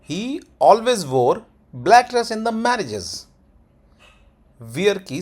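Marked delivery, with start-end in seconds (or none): 0.1-3.3 slow, higher pitch, "black dress" lifted high; sentence tone demo. Shown as a demonstration. Teacher saying it with the tone, slow high demo. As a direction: raise "always wore", hold "black dress" high, fall on "marriages". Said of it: "कैसे बोलेंगे tone के साथ".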